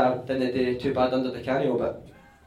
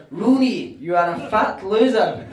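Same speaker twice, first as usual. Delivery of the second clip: mock manager insult; 5 semitones higher, 6 dB louder, slower than usual. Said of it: "the Canio's word were".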